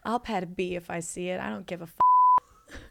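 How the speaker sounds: lightly voiced queer woman, casual and easy. Shown as a demonstration. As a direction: read it like a carefree queer woman. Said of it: "here's my queer woman voice".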